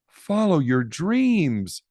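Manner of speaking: slow, tender and encouraging; mother's encouragement. Acted. Mother gently encouraging her daughter, slow and tender. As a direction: gently urge her to follow her dreams. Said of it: "said Poppy's mother".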